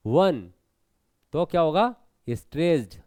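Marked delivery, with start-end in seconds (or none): 0.1-0.5 वन held long, dropping low; stressed, drawn out. Shown as a demonstration. Teacher showing वन is stressed, drawn out. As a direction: lean on वन and stretch it. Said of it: "तुरंत नहीं आ रहा".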